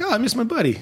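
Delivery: high-pitched, playful lament; mock pining. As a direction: pretend to pine for a pal. Mock pining for absent friend.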